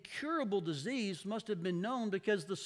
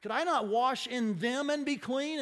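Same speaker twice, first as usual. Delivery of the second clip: indignant; 4 dB louder than usual. Acted. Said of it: "went away in a rage".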